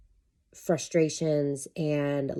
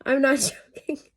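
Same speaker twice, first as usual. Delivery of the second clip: much higher and louder, insisting; emphatic insistence; 10 semitones higher, 5 dB louder than usual. Real, not acted. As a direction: burst out that it's true. Insists after long laugh.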